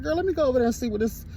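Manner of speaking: quick, keen mock reply to a friend; a light, hurried imitation of herself; eager retold reply. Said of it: "And I was like".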